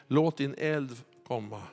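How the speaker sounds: low, soft plea to God, sung out over music; fervent prayer. Retold or imitated. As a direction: pray it quietly and earnestly. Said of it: "De bara ropade till Gud".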